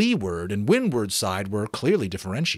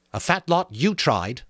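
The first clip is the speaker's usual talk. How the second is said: contemptuous; 6 semitones higher than usual. Acted. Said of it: "said Jack contemptuously".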